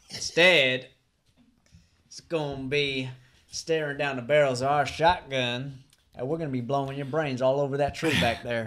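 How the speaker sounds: menacing Mickey. Acted. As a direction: threaten him with grinning menace. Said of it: "the scene from next week's movie".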